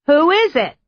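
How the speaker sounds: put-on high cackling old witch, like an old Disney film. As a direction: cackle it out like a fairy-tale witch. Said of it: "Again the cackle".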